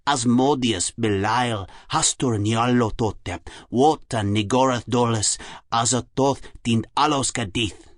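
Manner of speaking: put-on slow, measured German-accented recital; scornful German-accented professor; sneering Germanic accent. A narrator's reading. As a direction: intone each phrase with a German accent, pausing between. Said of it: "he sneered".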